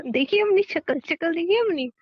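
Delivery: laughing tease. Real, not acted. Wife teases worried husband laughing.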